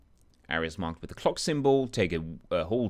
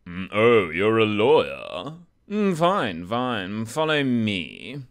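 1 guard voice; 6 dB louder, slower than usual. Acted. Voicing the prison guard.

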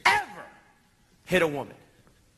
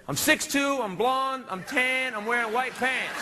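worried; 4 semitones higher, slower than usual. Retold or imitated. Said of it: "They take me to prison".

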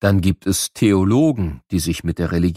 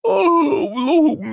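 weary sigh. Acted. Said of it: "puh, war das eine lange und anstrengende Reise".

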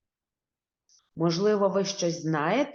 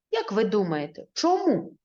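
questioning. Real, not acted. Teacher asks children a question.

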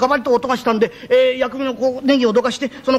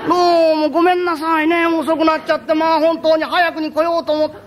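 courtesan's voice; 5 semitones higher than usual. Acted. Courtesan apologising for her late arrival, a lightly voiced sweet voice.

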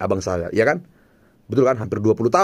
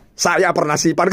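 amused; 6 semitones higher than usual. Retold or imitated. Brother's reveal punchline.

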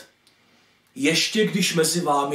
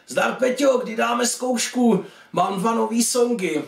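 put-on higher-pitched teenage pal on the phone; young bandmate; 5 semitones higher than usual. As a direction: greet an old mate, pitched up. Young bandmate greets his old friend. (vyšší hlas kamaráda z kapely)

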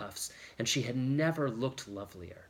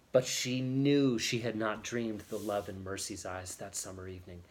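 plain reading voice

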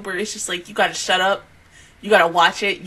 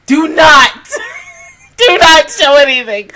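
louder, higher crying shout; real crying shout; 6 semitones higher, 8 dB louder than usual. Real, not acted. Fan shouting at TikTok not to show spoilers. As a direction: yell the order at TikTok. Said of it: "TikTok, do not".

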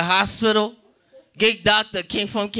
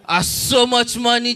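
put-on Jamaican accent; 3 semitones higher than usual. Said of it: "Jamaican men".

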